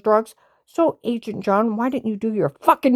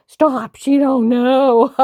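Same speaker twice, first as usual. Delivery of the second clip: slow and louder, cutting her off; higher and louder, drawn out like a warning; louder, slow retort; 4 semitones higher, 7 dB louder, much slower than usual. Retold or imitated. Agent's quoted retort.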